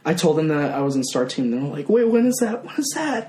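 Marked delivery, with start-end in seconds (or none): 1.9-3.3 higher-pitched, lightly imitated eager questions; playful high-pitched parent impression; mock excited parents. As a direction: imitate parents pressing for an answer.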